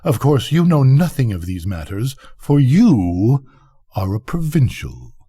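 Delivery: lightly voiced pompous snob; haughty rocket. Rocket lecturing a listener on his ignorance, mildly haughty. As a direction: talk down with a touch of self-importance.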